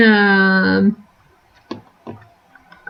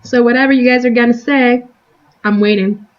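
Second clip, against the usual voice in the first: eating while talking; crunching chips; faster than usual. Real, not acted. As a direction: talk through a crunchy mouthful. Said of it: "Excuse my crunching".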